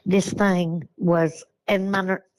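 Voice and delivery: real voice shaking, slow and halting. Real, not acted. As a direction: voice trembling with real fear. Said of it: "I'm sorry, my voice is shaking".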